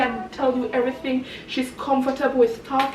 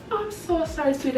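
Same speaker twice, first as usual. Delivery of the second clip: contrite motherly apology; 4 semitones higher, 5 dB quieter than usual. Retold or imitated. Mother apologises to scolding child.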